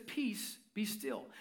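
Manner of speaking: quiet word that stills a storm; calm command. Retold or imitated. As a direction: hush the storm gently. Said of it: "Jesus calmly comes up".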